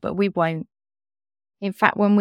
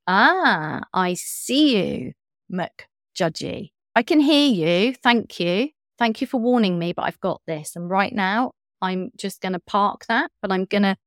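light, kind self-talk. Shown as a demonstration. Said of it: "bring a lightness to it".

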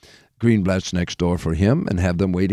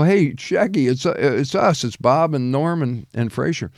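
calling out; 3 semitones higher than usual. Retold or imitated. Acting out calling to Shecky.

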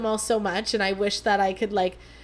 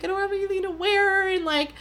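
higher, whiny self-mockery; mock dramatic whine; 8 semitones higher than usual. Mocking her past self to listeners, a whiny dramatic voice. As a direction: play up her own drama, lightly. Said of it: "She's so dramatic".

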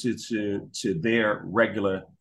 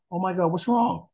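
panicked parent; 8 semitones higher than usual. Retold or imitated.

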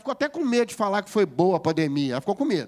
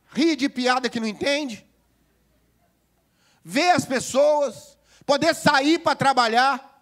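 preaching climax; 7 semitones higher, 5 dB louder, slower than usual. Real, not acted. Preacher climaxing list of lessons.

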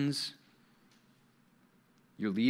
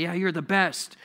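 slightly raised, fake praise; butter them up without meaning it; insincere flattery; 4 semitones higher than usual. Flatterer praising a would-be friend, insincere. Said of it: "Yeah, you're insincere".

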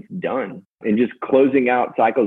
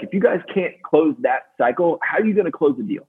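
getting fired up; 5 semitones higher than usual. Retold or imitated. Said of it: "he starts to get into it".

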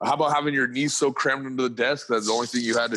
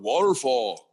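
lightly imitated small son, pitched up and drawn-out; cute little deep voice; 4 semitones higher, slower than usual. Dad telling a friend how his son says it, cute imitated kid voice. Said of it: "cute little deep voice".

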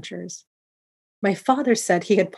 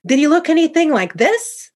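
high, loud challenge; spring it on father, voice raised high; dramatic reveal; 10 semitones higher, 6 dB louder than usual. A narrator's reading. Jumps out at father as robber.

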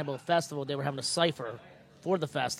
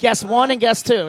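announcer voice; 5 semitones higher, 10 dB louder, slower than usual. Acted. Announcing guests, mock grand.

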